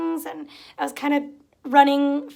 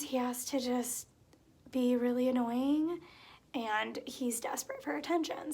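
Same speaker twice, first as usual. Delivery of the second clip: whisper; 3 semitones lower, 10 dB quieter than usual. Real, not acted. Whispered aside about the cat.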